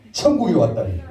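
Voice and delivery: playfully feigned disbelief; mock surprise. Shown as a demonstration. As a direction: demonstrate being astonished, for others to repeat. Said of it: "그래, 이렇게 놀라는 거예요". (깜짝 놀란 척)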